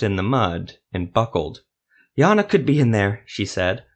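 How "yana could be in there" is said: desperate. A narrator's reading. Silva desperate about her friend.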